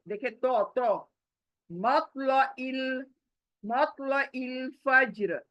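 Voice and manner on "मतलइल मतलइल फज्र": मतलइल with a full, heavy ط. Shown as a demonstration. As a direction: round the mouth for the thick t in मतलइल. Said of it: "मेरा मुंह भी मोटा होना चाहिए".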